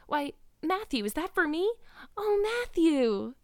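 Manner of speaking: put-on high, elated girlish character voice, easing as she chatters, then soaring; excited young Anne. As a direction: greet the household with gushing delight. Anne's delighted Christmas greeting.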